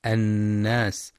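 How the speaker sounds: "الناس" with a long nasal hum on nun; full ghunna. Shown as a demonstration. Teacher demonstrating ghunna, "الناس" with held nasal nun. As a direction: slowly hold the doubled n of "الناس". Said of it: "للغنة في النون المشددة".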